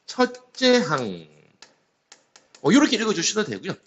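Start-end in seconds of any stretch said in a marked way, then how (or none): 0.1-1.3 천천히 또박또박 읽기. Shown as a demonstration. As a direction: read the term out slowly, as a model for students. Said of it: "이렇게 읽어주시면 돼요". (천천히 읽어 보이는 말투)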